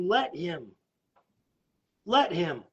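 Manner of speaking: low, soft urging; hushed invitation with a pause between; gentle appeal. Real, not acted. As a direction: drop to a quiet, earnest plea. Pleading with the unsaved to accept.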